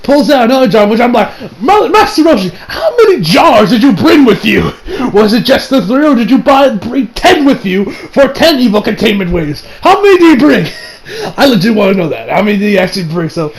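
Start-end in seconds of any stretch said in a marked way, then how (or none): 1.6-10.7 mock-exasperated, higher questioning; incredulous questioning. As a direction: pester him in playful disbelief. Reacting to Roshi's endless jars.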